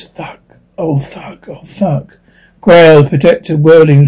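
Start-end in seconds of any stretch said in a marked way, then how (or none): 0.0-2.2 very soft, slow cursing under the breath; whispered cursing. A narrator's reading. Narrated character whispers in shock, very soft and slow. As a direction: let it drop right down, slowly.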